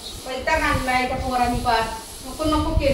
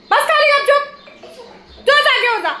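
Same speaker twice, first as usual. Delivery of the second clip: scolding order; 10 semitones higher than usual. Real, not acted. Ordering the dog to settle down.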